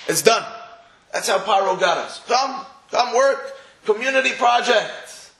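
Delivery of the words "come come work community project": coaxing Pharaoh. Acted. Pharaoh luring the Jews to work.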